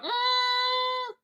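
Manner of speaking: a high, soft mock "mm"; high mock hum. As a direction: hum it high and thin, teasing. Mocking grumpy baby noise.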